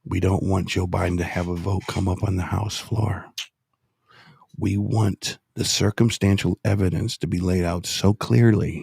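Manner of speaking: measured phrases with long pauses; deliberately slow. Shown as a demonstration. Host explaining strategy to co-hosts, slow and deliberate. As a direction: lay it out step by step. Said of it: "I'll just say it slowly".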